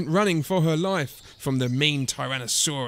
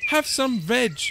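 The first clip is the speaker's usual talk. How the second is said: high, friendly invitation; happy high-voiced herd; hooting; 7 semitones higher than usual. A narrator's reading. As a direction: hoot it hospitably. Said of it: "they hooted".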